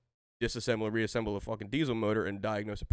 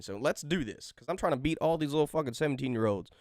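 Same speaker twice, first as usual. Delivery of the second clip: cocky boast; 4 semitones higher than usual. Retold or imitated. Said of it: "I'm like".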